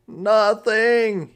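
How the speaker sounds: high, loud startled yelp. Acted. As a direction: blurt it out too fast. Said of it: "he yelped".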